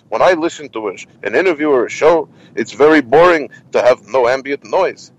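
lightly voiced old-comic complaint, lilting emphasis; opinionated performer, lightly imitated; Jackie Mason. Comic refusing to record at his apartment, lightly imitated complaint. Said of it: "he goes".

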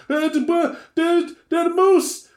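a man who can't believe what he's seeing; stunned witness. Retold or imitated. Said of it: "listen to them tell the story".

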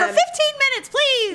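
mock exasperated plea. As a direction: plead with exaggerated exasperation. Co-host voices her pleading with family.

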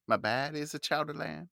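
Boston accent, with "My baddie" said for "my body" and the o opened to a flat a. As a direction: sing "baddie" the Boston way, dropping the crooner polish. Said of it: "okay, that's your accent".

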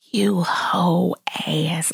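slow whispered cuss under the breath; muttered curse. Retold or imitated. Cursing the mom in the car, slow whispered swearing. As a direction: hiss the insult to yourself. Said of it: "I cursed all type of".

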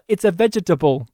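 every syllable of "vegetable" spelled out, VEG-E-TA-BLE; "vegetable" said as four careful syllables; Steve Martin's accent. Retold or imitated. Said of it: "that line delivery from Steve Martin".

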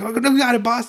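squeaky lost minion; dopey bandit voice. Retold or imitated. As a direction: ask like a clueless goon. Bandits eager to obey.

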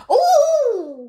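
high, loud drawn-out "Oh!"; crone's call. Pretend. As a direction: beckon like a squinting crone. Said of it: "who goes".

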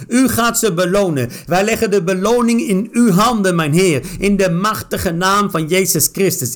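declaring each line with force; preaching-style prayer with strong stresses; fervent prayer. Real, not acted. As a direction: pray it out, commanding in Jesus' name. Prayer over reading.

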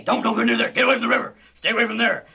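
hammed-up woman yelling warnings; shrill woman's warning. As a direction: shoo them off the river. Voicing woman at the river.

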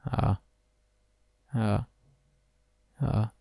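soft, halting sighs in a put-on voice; king faking a Moor's voice to deceive her; low, broken Moorish voice. A narrator's reading. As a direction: feign a strange foreign voice, softly. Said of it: "a bassa voce e disarmonicamente per imitare la parlata dei Mori".

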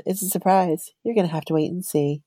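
coy and playful, retelling own flirting; fun and flirty. Retold or imitated. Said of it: "actually sounded fun and flirty".

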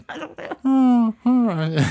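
laughing through the words; breaking up in giggles; giggling. Real, not acted. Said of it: "The giggles".

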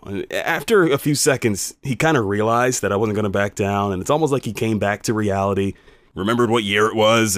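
ordinary delivery

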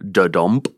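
da-dump with the beat on dump; iamb rhythm. Shown as a demonstration. Teacher demonstrating the iamb to listeners, beat on dump. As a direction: tap out da-dump, stress on dump. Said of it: "made up of an iamb".

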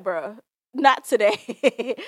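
slow, loud and flat refusal, drawn out; unbothered shutdown. Pretend. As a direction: shut them down slowly and firmly, no debate. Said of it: "I'd have been like".

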